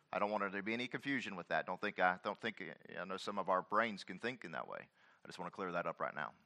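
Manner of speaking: gentle quiet clarification; soft aside. Real, not acted.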